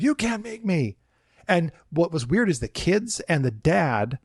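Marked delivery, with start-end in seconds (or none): 0.0-1.0 much higher mock whining refusal; defiant guest. Guest defying manager at parade, high whining refusal. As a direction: dig in like a sulky child.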